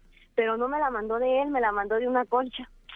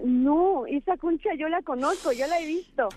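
retold realisation; 6 semitones higher than usual.

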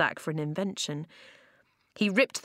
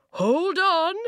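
loud, high shout; hollered; 11 semitones higher, 6 dB louder than usual. Acted. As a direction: holler a warning to the riders. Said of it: "the grey man hollered".

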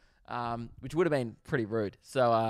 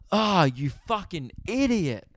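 mock yell, drawn out and raised in pitch; retold yell; 4 semitones higher, slower than usual. Driver yelling at the man faking blindness, mock yell. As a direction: stretch out a mild, exasperated yell. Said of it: "And I yell".

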